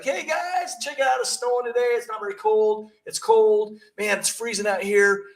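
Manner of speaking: high-pitched mock doorstep greeting, easing down; hammed-up high, sing-out chitchat; chatty small-talk parody. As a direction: play a time-wasting caller making weather small talk. Mimics a dawdling doorstep chat.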